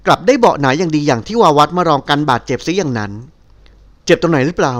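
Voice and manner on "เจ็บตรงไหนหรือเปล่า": slow, caring question; worried and gentle. Acted. He asks the woman who fell on him, slow and caring. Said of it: "ด้วยความเป็นห่วง".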